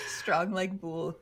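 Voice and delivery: slow mock Russian accent. Host repeating the next comment, slow Russian accent. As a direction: deliver it slowly as a stock Russian. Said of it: "read this with a Russian accent".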